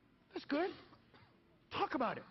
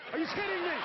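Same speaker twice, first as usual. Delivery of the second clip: incredulous, louder, with a laugh; laughing disbelief; 5 semitones higher, 3 dB louder than usual. Real, not acted. Comic ranting at the Alabama legislator, laughing disbelief.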